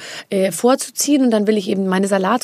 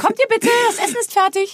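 much higher, put-on posh mum voice; mother calling to dinner; 12 semitones higher than usual. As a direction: sweetly summon the children to the table. Mutter ruft zum Essen. (hoch gestellte Mutterstimme, ruft die Kinder zum Essen)

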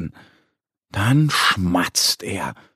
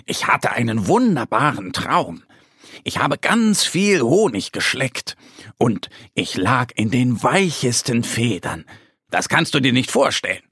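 excited. Acted. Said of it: "Er erzählt aufgeregt".

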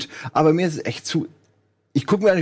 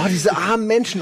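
gespieltes Mitleid; 6 semitones higher than usual. Retold or imitated. Verspottet Mitleid bei Serie.

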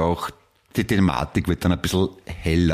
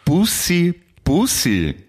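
giggly late night call; 10 semitones higher, much slower than usual. Real, not acted. Silly high goodbye kisses.

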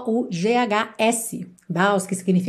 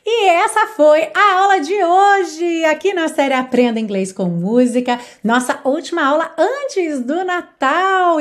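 upbeat sign-off; 5 semitones higher, 4 dB louder than usual. Real, not acted. Upbeat lesson wrap-up.

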